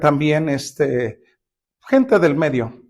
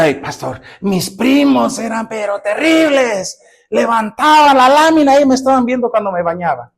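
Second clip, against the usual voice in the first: lightly voiced young woman; 5 semitones higher than usual. Pastor voices a woman's complaint.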